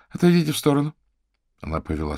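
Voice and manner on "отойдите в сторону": stern order. A narrator's reading. Gunpoint order.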